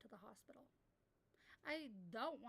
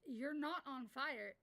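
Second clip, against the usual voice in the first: slow, deadpan denial; flat correction; much slower than usual. Retold or imitated. Moderator retells telling kid off, deadpan slow. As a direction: spell it out slowly. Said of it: "I literally go".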